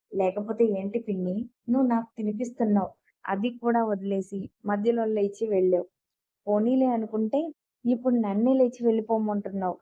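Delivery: a mild sulky complaint, lightly voiced; understated childish pouting complaint. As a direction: sulk like a spoiled boy who lost his turn. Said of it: "అలకగా అన్నాడు అగస్య".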